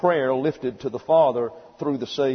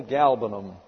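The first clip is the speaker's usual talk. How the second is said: GALBANUM with the accent on GAL; stress on first syllable; 3 semitones lower than usual. Shown as a demonstration. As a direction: stress the first syllable of galbanum, letting the rest fall away. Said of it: "The accent on the first syllable".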